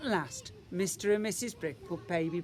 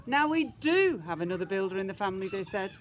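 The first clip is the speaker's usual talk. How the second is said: fast and louder with relief; happy parents; 5 dB louder than usual. Acted. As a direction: cheer it out, relieved.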